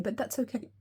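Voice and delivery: hiccup breaking into the words. Real, not acted. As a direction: talk through a hiccup.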